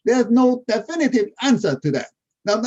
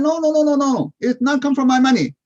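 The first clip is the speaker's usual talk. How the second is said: excited denial; 4 semitones higher than usual. Retold or imitated. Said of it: "I said".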